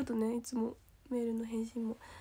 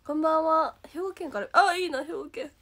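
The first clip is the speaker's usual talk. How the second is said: ordinary delivery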